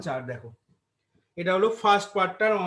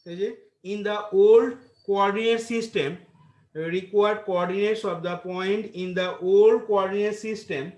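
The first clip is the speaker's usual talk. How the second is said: dictating; much slower than usual. Acted. Dictating answer to class.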